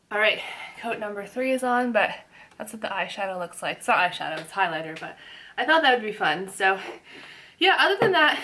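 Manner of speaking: lips held apart while the lipstick dries; mouth propped open. Real, not acted. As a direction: talk without closing the lips. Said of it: "sorry, I still can't close my lips".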